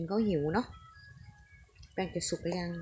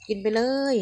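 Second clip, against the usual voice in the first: urging louder; 4 semitones higher, 7 dB louder than usual. Real, not acted. Mother urging child again, louder.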